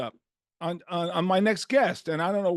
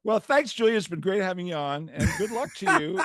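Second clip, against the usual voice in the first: mock sign-off; 4 semitones higher, 3 dB louder than usual. Mock ending interview as joke.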